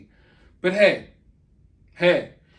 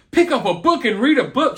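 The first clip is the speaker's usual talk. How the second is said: higher, louder catty imitation; scornful mock quote; 4 semitones higher, 5 dB louder, faster than usual. Commentator imitating a mother belittling her kid, scornfully. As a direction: throw it out as a mocking put-down. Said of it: "saying that her kid is freaking stupid".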